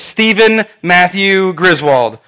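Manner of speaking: slow, measured full-name warning; very serious parent. Retold or imitated. Mom and dad call their son, very serious. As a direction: weigh each name like a scolding parent. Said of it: "My mom and dad got very serious".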